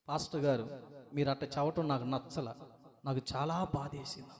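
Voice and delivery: quietly sulking at the pastor; a hint of an offended sister; hurt complaint.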